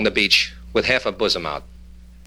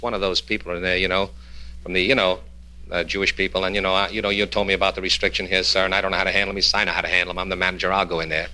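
hushed clerk; 7 semitones lower, 5 dB quieter than usual. Retold or imitated. Clerk and manager speak low.

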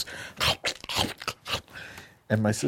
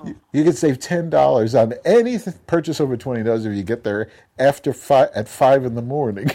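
laughing through it; 5 semitones higher, 5 dB louder than usual. Real, not acted. Laughing while telling the sale story.

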